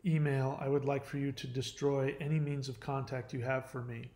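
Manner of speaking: quiet, steady retold goodbye; calm. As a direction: say it evenly, keeping composure. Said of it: "I was very calm about it".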